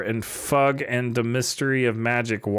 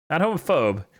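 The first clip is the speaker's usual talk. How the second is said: homophobe punched higher; contrastive stress; 4 semitones higher than usual. Shown as a demonstration. Contrasts misspelling with intended word.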